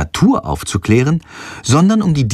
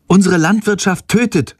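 rufend; 7 semitones higher than usual. Acted. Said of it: "ruft sie".

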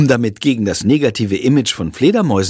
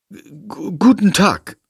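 flustered greeting; 7 semitones higher, slower than usual. A narrator's reading.

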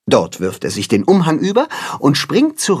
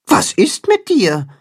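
higher bird voice, asking with concern; worried bird; 10 semitones higher than usual. A narrator's reading. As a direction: lean in and ask the sad fish gently. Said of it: "fragt Timme besorgt".

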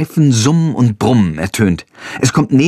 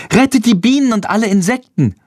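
rufend; 10 semitones higher than usual. A narrator's reading. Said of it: "ruft Lilli".

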